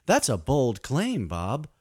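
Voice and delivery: mock talk show host; host a silly radio show. Fake radio host interview.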